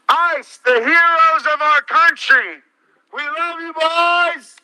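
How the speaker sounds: frat bro. Acted. Mocking cheers through a megaphone.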